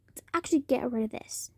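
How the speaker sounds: fast hushed whisper. Real, not acted. Kid hiding the recording, quick whisper. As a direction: whisper it so nobody hears. Secretive aside.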